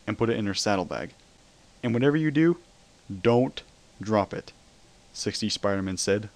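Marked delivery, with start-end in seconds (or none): 1.8-4.5 serious. A narrator's reading. Spider-Man warns Luna about the box, grave. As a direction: warn her gravely. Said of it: "full of seriousness".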